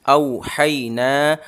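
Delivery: very slow औ हई ना with ना drawn long; slow teacher recitation; only ना stretched. Shown as a demonstration. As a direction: keep औ and हई short, stretch ना. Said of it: "सिर्फ नून खींचेगा".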